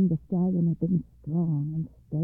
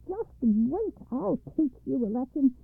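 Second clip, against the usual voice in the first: angry threat; 4 semitones higher than usual. Acted. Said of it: "the lady flew into a passion".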